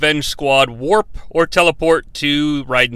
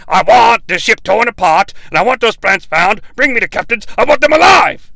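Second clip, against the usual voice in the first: boss voice; 3 semitones higher, 3 dB louder than usual. Retold or imitated. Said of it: "You expect some fucking boss voice".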